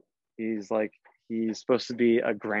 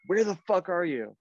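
higher-pitched mock exasperation; retold angry demand; 6 semitones higher than usual. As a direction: imitate an annoyed boss on the phone. Retold angry call to late kid.

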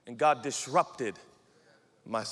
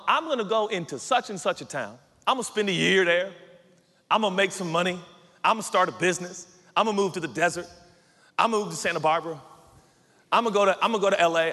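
louder, brash list of plans; presumptuous planning; 4 dB louder, faster than usual. Acted. Planner boasts of towns and business, brash and presumptuous. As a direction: rattle off plans with cocky certainty. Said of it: "you can't talk like that".

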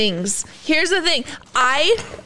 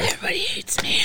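sulky whisper; 6 dB quieter, faster than usual. Real, not acted. Sulking after eating hot pepper.

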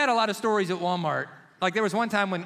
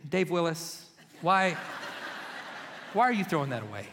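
stern wife. Retold or imitated. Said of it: "Or more, she said".

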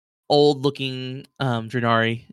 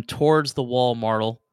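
ordinary delivery

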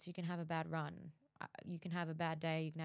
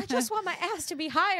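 high squeaky put-on whine; mock whiny voice; 11 semitones higher, 11 dB louder than usual. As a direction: whine it like the driver. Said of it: "It's like".

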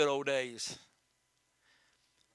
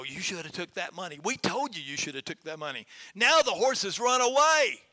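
scolding neighbors; 3 dB louder than usual. Acted. Preacher voicing neighbors who scold the farmer over the lost horse, jeering and building louder.

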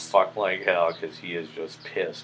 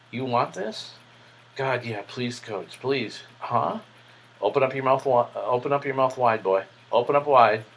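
higher, louder dominant coach, pressing; dominant command; 6 semitones higher, 5 dB louder than usual. Retold or imitated. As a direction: order him around, loud and high.

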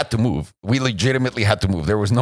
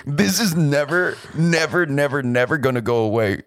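mock despair, stretching each never; retold panic; 5 semitones higher than usual. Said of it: "I remember being terrified".

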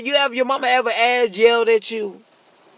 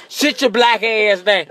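slow, firm grandma scold; a hint of a strict grandma; old folks scolding; slower than usual. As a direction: draw it out like a stern grandmother. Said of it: "that's what old folks".

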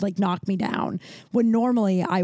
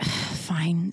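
low, sighed concession; retold grudging surrender; 4 semitones lower, 3 dB quieter than usual. Giving in to a partner's repeated orders, grudging. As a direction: give in reluctantly after a sigh.

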